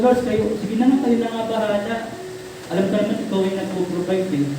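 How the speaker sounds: soft, resigned prayer to the Lord; quiet surrender. Retold or imitated. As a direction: let it go quietly, giving up to God. (mahinang pagsuko sa Panginoon)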